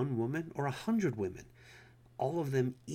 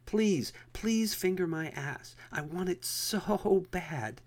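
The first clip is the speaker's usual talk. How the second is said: higher, louder and slow pleading; drawn-out, raised plea on the second try; loud begging; 8 semitones higher, 6 dB louder, slower than usual. A narrator's reading. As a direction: beg loudly so everyone can hear. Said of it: "I said loudly".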